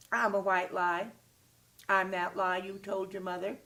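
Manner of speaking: loud, sly creature voice announcing itself; little creature voice. Acted. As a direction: play the little white lie creature. The white lie creature speaks.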